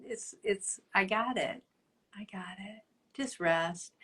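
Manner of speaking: put-on quietly soothe, as if to a sick child; hushed God voice.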